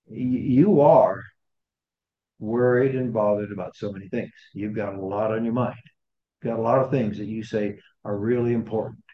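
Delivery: a gentle, caring rebuke to a busy friend. Acted. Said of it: "Jesus gently, I think gently, very gently".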